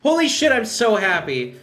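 wired, loud and high; buzzing with excitement; too much caffeine. Real, not acted. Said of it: "mentioning how wired I am".

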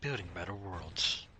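corporate slogan voice. Retold or imitated. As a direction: intone it like a company tagline. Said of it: "Sounds like Weyland Yutani".

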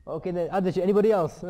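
loud, rising appeal to everyone; acted calling out. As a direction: throw the question open to the whole table. Father calls on other children.

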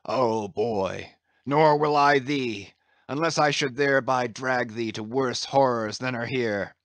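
lightly voiced captain, fervent and declamatory; impassioned Captain Ahab. Captain leads the boy to his cabin, impassioned. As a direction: declaim it with a touch of grandeur.

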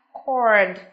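"cord" low and falling, with an "or" vowel; model pronunciation. Shown as a demonstration. Teacher shows students how B sounds, modelling "cord" with "or". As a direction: pronounce "cord" as a careful model word. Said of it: "phát âm là".

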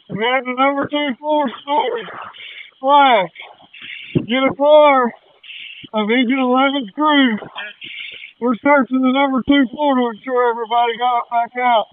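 loud, urgent radio call over the fire; pushing the words out fast and urgently; urgent firefighter radio. Real, not acted. Firefighter radioing during a Mayday.

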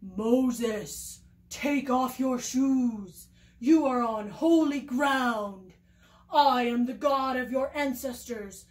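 a lightly voiced solemn God; God's voice. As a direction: speak as God from the bush, grave and slow. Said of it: "he heard God's voice say".

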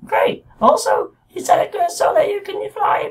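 very high, tiny cartoon puppet crying for help; squeaky Pinocchio voice. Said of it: "I don't even know what his voice is".

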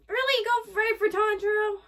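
loud, high protest at the screen; outraged outburst. Real, not acted. Viewer sees the demon go for Tanjiro, outraged outburst. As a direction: cry out in real indignation.

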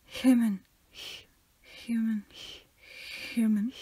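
"Human" with a long hissed breath first; exaggerated H. Shown as a demonstration. Friend playing with the H noise, "Human" over-aspirated. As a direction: lean hard on the airy H in "Human".

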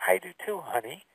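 softly, trailing down to almost nothing; retold gentle murmur to a child; tender agreement. Grandpa answering his grieving three-year-old granddaughter, tender and hushed.

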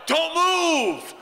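high, sharp retold shout at the thieves; retold yell. Pastor yelling at gas thieves from the lights, retold shout. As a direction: bark it like a startled night watchman. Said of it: "and yell".

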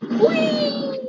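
gleeful high-pitched whee; high playful whee. Real, not acted. Jetpack fall in game.

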